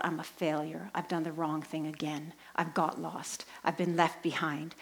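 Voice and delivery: low, soft self-blame; quietly defeated, voice dropped; mild despair. Retold or imitated. Lost woman to herself in the locked church, mild despair.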